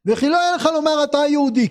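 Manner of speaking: a firm reproach aimed straight at the listener; said aloud. Shown as a demonstration. The Kuzari says it aloud to the Haver, firm and direct. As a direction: say it out loud to his face. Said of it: "פה בטוח אומר בקול".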